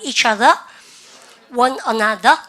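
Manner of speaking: "each other", a pause, then "one another", for the class to copy; model pronunciation. Shown as a demonstration. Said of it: "서로 서로 발음을". (따라 읽도록 끊어 말하는 발음 시범)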